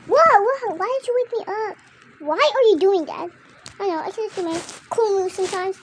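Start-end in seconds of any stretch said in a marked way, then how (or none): 0.1-3.3 startled, high and loud; jolted awake and annoyed; rudely awakened. Pretend. Sibling woken up suddenly.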